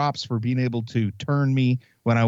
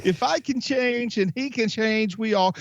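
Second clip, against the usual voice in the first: rousing movie speech, slower and higher; Rocky's speech; 10 semitones higher than usual. Retold or imitated. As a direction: deliver it like Rocky in the ring. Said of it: "Rocky speech repeated".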